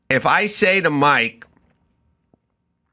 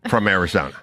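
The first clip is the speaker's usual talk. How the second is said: spelling it out slowly for Mike; each word laid out like to a child; slow, deliberate question; 2 semitones lower than usual. Retold or imitated. Husband slowly spelling out his question to Mike. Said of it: "as I said to him yesterday".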